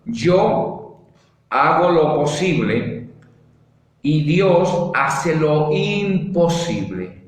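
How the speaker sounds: slow and deliberate, word by word; slow dictation. Shown as a demonstration. Preacher dictating the motto slowly to the congregation. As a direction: spell it out slowly for note-taking. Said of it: "Si quiere, escríbalo ahí".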